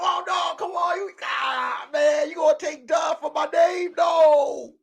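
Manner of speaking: hammed-up pleading protest; whining baby. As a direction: beg like a kid losing his name. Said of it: "He was at home crying. They were like".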